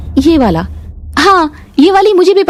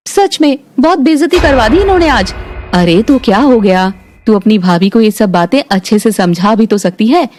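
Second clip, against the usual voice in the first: ordinary talk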